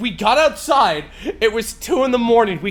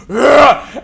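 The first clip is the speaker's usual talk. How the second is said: zombie grunt; 5 semitones higher, 9 dB louder than usual. Retold or imitated.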